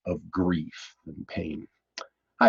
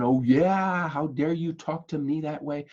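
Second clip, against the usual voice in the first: a sharp, raised "Oh yeah" then an indignant question; upset retort; 5 semitones higher than usual. Retold or imitated. Husband imagining snapping back at his foul-tempered wife, mock indignant. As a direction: snap back as if offended. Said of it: "instead of getting upset and saying".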